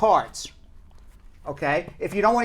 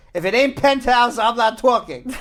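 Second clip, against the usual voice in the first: quoting John Candy; 3 semitones higher than usual. Retold or imitated. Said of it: "he came in ... he said".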